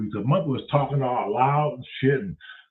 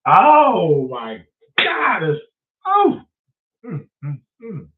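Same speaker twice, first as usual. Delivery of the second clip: mock crying; 3 semitones higher, 7 dB louder, much slower than usual. Mock despair at the place.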